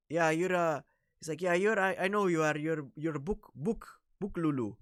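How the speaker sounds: playfully imitating the friend calling him a name; mimicking a friend.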